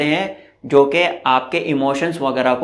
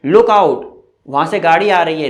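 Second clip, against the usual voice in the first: warning call; 5 dB louder than usual. Shown as a demonstration. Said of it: "लुक आउट भी बोलते हैं".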